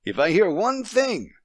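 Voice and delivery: a father laying down the law to his wife; threatening. A narrator's reading. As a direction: raise the voice in a threat. Husband threatens, glare hardening.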